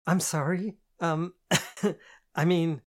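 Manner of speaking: high, flustered, laughing apology; flustered nervous laugh. A narrator's reading. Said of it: "I spluttered my rice".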